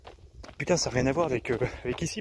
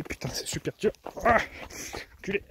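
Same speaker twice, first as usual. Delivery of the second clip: while running; 8 semitones higher than usual. Real, not acted. Running on a hard trail.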